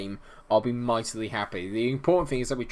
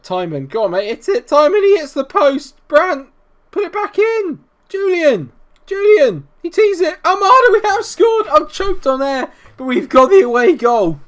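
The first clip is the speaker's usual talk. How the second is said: screaming much higher and louder through the goal; ecstatic shouting; 11 dB louder than usual. Real, not acted. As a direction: lose it completely as the ball goes in.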